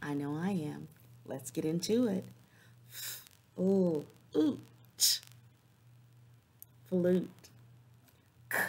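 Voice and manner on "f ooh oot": "F, ooh, oot" said sound by sound with pauses; phonemes broken apart. Shown as a demonstration. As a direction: segment the word slowly into parts. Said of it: "I'm gonna break the phonemes".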